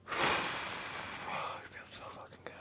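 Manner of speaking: slow whispered bliss; blissful whisper. Real, not acted. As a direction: let it out slowly in a whisper. Whispered savoring joy.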